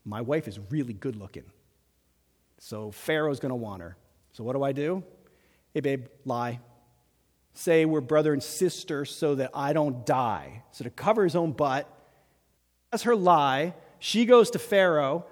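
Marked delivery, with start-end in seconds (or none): 0.1-10.6 lower, sheepish husband scheming aloud; Abraham's excuse. Retold or imitated. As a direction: voice him low as a cowardly husband. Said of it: "And he's like".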